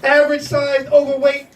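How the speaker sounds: measured mock headline read; slow, deliberate announcer parody; news headline. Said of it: "You know what the headline would be".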